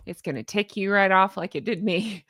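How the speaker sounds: real slip into a Southern twang; Southern accent. Real, not acted. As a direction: let a light Southern lilt creep in. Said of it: "I just got Southern there".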